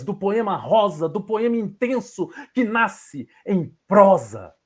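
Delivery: poetry declamation. Shown as a demonstration. Poet improvising a poem for Lucas, declaiming. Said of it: "vou recitar pra vocês da forma como eu recito".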